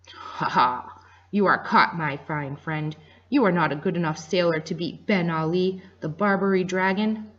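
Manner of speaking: lightly voiced gloating pirate. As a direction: crow over the trapped doctor. Pirate gloating over caught doctor.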